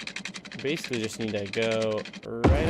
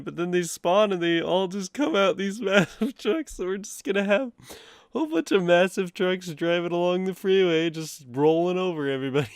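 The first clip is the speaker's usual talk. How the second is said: laughing; 5 semitones higher than usual. Real, not acted. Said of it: "from laughing this much".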